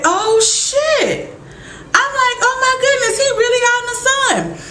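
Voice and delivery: high, squealing shock with a laugh; high-pitched oh-my-goodness shriek; shocked disbelief. Retold or imitated. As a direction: gasp it out, stunned and half laughing. Reacting to Eric walking into sun.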